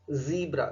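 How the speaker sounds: ज़ीब्रा with a long EE, ZEE-bra; correct ZEE-bra pronunciation. Shown as a demonstration. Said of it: "ध्यान दीजिए इसका pronunciation". (ज़ीब्रा में लंबी ई का उच्चारण)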